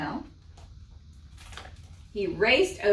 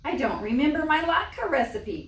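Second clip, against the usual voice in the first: high, louder panicked wife; crying out; 7 semitones higher, 4 dB louder than usual. Acted. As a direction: cry it out in a panic. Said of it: "cried Fagel".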